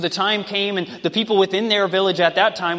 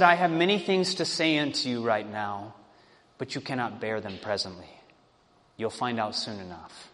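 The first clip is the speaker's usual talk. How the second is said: hushed secret; 10 semitones lower, 8 dB quieter than usual. A narrator's reading. King keeps his secret.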